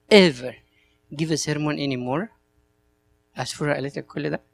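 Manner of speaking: fast, quiet, hurt disbelief; young priest questioning the metropolitan in quiet, fast disbelief; incredulous protest. Retold or imitated. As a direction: rattle off the questions softly, half-hurt. Upset priest answers the metropolitan.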